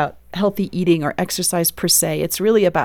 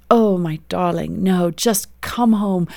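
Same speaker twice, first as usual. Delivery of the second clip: put-on South African British accent. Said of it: "in his beautiful South African British accent".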